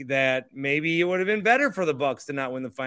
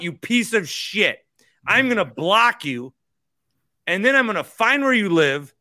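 mock angry rant; 3 semitones higher, 4 dB louder than usual. Joking rant at a regular commenter.

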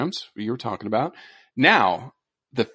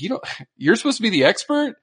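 teasing friend; 9 semitones higher, faster than usual. Retold or imitated. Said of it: "he was teasing me".

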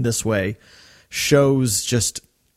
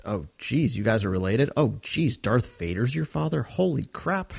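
stunned reaction; 5 dB quieter than usual. Acted. Acts out stunned reaction to revelation.

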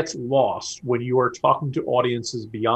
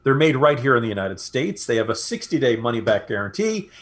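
measured sponsor pitch, key words stretched; ad read. Real, not acted. Host pitching premium pillows to radio listeners, ad read. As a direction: sell it like a radio sponsor spot.

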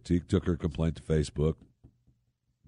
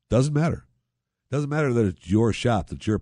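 louder, higher punch on "Doesn't matter"; emphatic outburst; 4 semitones higher, 4 dB louder than usual. Real, not acted. Host ranting against forced service.

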